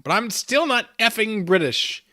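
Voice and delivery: hammed-up indignation from a chat viewer; indignant mock quote; mock indignant Irish viewer. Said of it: "Nimrod says".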